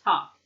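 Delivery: "talk" with no L sound; silent L. Shown as a demonstration. Teacher shows students the spelling trap, "talk" without any L. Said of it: "We don't pronounce the L in talk".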